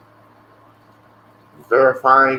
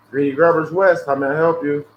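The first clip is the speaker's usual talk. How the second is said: fake drive-thru greeting; 4 dB louder than usual. Answering a sales call with a fake business.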